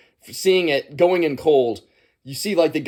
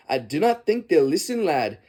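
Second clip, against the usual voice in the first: put-on Scottish accent. Film fan quoting a character he loves, in a Scottish accent. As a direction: imitate a Scottish character, voice raised. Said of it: "Scottish accent from this character".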